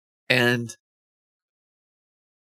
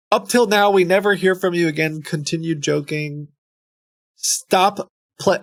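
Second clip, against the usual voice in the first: all caps; 3 semitones higher than usual. Acted. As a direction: read it out like an all-caps email. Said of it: "when the all caps comes out".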